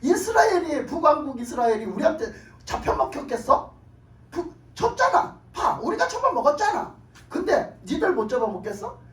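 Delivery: imitated gloating conqueror; mocking taunt. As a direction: rub the conquest in their faces. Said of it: "히스기야를 희롱하는 거예요".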